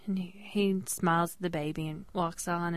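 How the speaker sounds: hushed whisper of the eerie moment. Real, not acted. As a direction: drop to a whisper as he walks off. Telling of the creepy moment.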